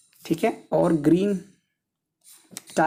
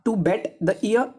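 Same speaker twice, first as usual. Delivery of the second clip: the idiom read out very slowly, word by word; much slower than usual. Shown as a demonstration. Teacher reading the question to students, very slowly.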